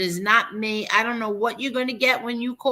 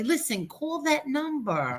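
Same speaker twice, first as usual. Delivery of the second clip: mock instruction; 3 semitones higher, 6 dB quieter than usual. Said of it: "then I'd be sitting here telling everybody".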